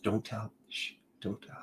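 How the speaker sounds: hushed secretive whisper; playful whisper. Retold or imitated. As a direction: shush like sharing a secret. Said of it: "I don't know why I'm whispering".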